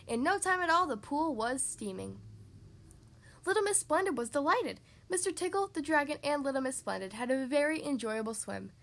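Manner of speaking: measured, lively storybook reading; story narration. A narrator's reading. Reading a picture book to children, lively story narration. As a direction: read it out clearly to young listeners.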